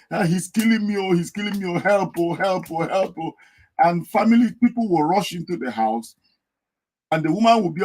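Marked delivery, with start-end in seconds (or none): 0.1-3.3 imitating a wife wailing, pitched higher; lightly acted cry of help oh, help oh; mock wife crying for help. Wife fakes being beaten, calls out in mock distress. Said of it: "has been crying every time you hear them".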